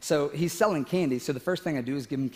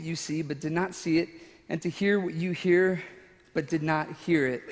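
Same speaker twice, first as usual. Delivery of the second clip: scripture reading; 2 semitones higher than usual. Acted. A preacher reading Matthew to his congregation. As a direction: read the verses with reverence.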